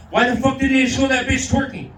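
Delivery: high, loud mock complaint; mock mad. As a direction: rant like a cheated moviegoer. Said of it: "I got mad and I go".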